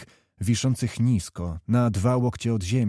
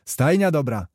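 lightly exclaimed praise; 4 semitones higher than usual. Acted. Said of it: "wykrzyknął Zęd".

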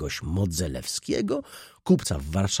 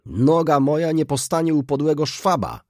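high, indignant outburst; angry cry; 7 semitones higher, 4 dB louder than usual. A narrator's reading. Jan swears off visiting his brother, angrily crying out. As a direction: vow it hotly, pitched well up. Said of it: "krzyknął Jan".

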